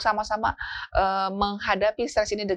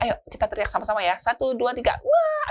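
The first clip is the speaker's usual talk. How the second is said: counting to a shout; 5 semitones higher than usual. Retold or imitated. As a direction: count up and burst into a high yell. Parent leading shout with child.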